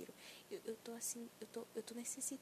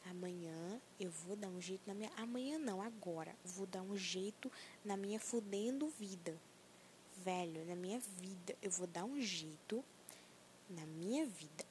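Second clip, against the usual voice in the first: mantra to repeat; 3 semitones lower than usual. Acted. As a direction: lead the listener through the chant. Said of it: "repita comigo".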